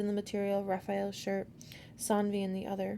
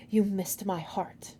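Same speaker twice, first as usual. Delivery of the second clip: grinning; slower than usual. A narrator's reading. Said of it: "grinning for the first time".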